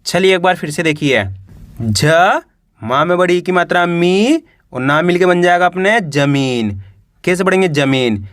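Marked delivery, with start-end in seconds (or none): 1.8-4.4 teacher's letter-by-letter reading, "ज" held alone, "मी" stretched and rising; "ज", pause, then a long rising "मी"; sounding out letters. Shown as a demonstration. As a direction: spell it out piece by piece, drawing out "मी". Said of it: "एक अक्षर का उच्चारण करके".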